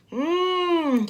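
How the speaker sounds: pleased mmm over food; mmm of enjoyment. Acted. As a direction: savor it with a hum. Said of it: "took a big bite".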